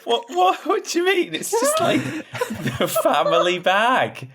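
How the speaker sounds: very high, squeaky flustered protest; hammed-up high-pitched defensive whine. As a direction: squeal your excuses in mock embarrassment. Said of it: "I was like".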